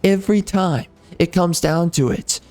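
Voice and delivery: real, heated outburst at the audience; worked-up, resentful tirade; angry rant. Real, not acted. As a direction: tell them off, fed up and bitter. Ranting at viewers who ignored them.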